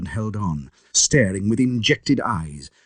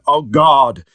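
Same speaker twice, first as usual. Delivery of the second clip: terrified scream; 2 semitones higher, 8 dB louder than usual. A narrator's reading. Lanyon screaming at the sight of Jekyll. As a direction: scream it out in terror. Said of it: "again and again".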